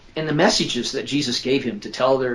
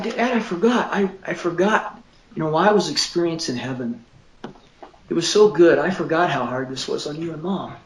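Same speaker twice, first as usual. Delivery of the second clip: higher, emotional imitation of a crying son; retold tearful confession; 5 semitones higher than usual. Son tells Dad what he forgot, imitated tearfully. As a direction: relive your son's tearful confession, pitched up. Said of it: "he was just sitting there crying".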